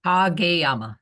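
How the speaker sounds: Kageyama said loudly as "kah-geh-YAH-ma", falling; demonstrated pronunciation. Shown as a demonstration. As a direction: model Kageyama firmly with an "ah" first vowel. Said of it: "how do you say it?".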